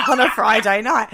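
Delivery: loud laugh through the words; cracking up mid-line; laughing hard over it. Real, not acted. Laughing about rude talk.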